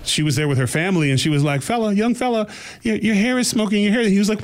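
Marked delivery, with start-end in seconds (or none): 1.6-4.1 higher-pitched take on a little Scottish woman. Retold or imitated. Scottish woman alerting a young man to his smoking hair, imitated in a higher voice. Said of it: "This little Scottish woman was like".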